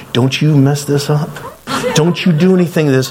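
acted-out attempt to scare someone off; retold warning. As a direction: warn him to back away. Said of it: "I'm trying to scare this guy".

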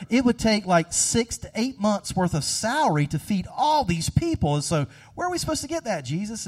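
disbelieving, rising pitch and pace; incredulous. Retold or imitated. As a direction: protest as if the idea were absurd. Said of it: "disciples are like, kind of incredulous".

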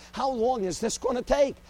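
preacher demanding an answer from God, loud and pleading; pleading outcry. Retold or imitated. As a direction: cry out How long is this gonna take at heaven. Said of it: "the preacher standing before God".

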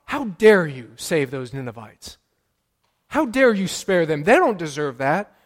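loud, high, indignant outcry at God; angry protest. Retold or imitated. Jonah railing at God over the spared Ninevites, loud angry outcry. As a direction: rail at God for sparing the enemy. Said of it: "it's as if he said to God".

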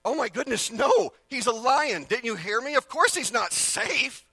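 high, loud and slow, like a scandalized creature; exasperated talking animal. Retold or imitated. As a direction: shout it up high, slowly, as if the question is absurd. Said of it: "And the animal goes".

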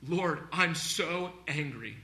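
slow, restrained acted anger; anguished complaint to God. Preacher acting Job lamenting toward God, slow mild angry plea. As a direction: complain slowly upward in prayer, mildly angry. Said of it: "and he's complaining upward".

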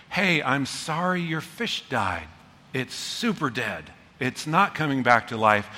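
gentle caring listener; gentle listening. Shown as a demonstration. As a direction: invite them to share their pain. Modelling listening.

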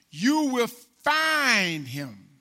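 each word drawn out slowly; slow emphasis. Acted. Preacher slowly stresses the promise to the people.

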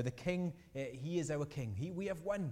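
mildly jubilant cry of a victory procession; celebrating. Acted. Army joining the king's victory procession, celebrating. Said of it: "kind of celebrating".

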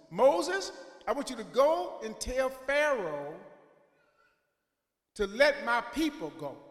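loud, commanding call to Moses; God thundering his orders down; booming God. Retold or imitated. God commanding Moses in a booming voice. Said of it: "and he tells Moses".

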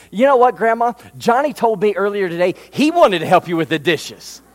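put-on high, sugary tattletale girl voice; sly little sister. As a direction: act like a sweet little snitch selling out her brother.

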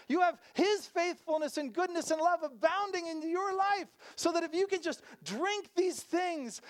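impassioned sermon quote; preaching Jesus' words. Retold or imitated. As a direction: proclaim it like a fervent preacher voicing Jesus. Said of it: "He's the one who said".

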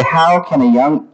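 "How" leads, rest follows lightly; emphasize "How" at the start; stress on "How". Shown as a demonstration. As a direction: lean on the word "How". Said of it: "I emphasize the first word".

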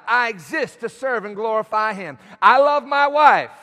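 declaration building in volume; said out loud. Shown as a demonstration. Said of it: "Say it out loud".

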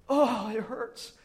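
drawn-out, pained little voice; imitating hurt child. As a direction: mimic a small child in pain. Hurt little girl, retold.

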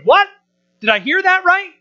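gasping at what they just heard; mock crowd disbelief. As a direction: act out the stunned crowd turning to a neighbour. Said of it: "Murmur amongst yourselves".

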